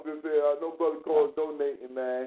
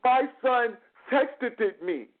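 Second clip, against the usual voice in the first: slow, higher mock read-aloud; reading off paper; 5 semitones higher, slower than usual. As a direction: recite it stiffly, word by word like written text. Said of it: "she read this off the thing".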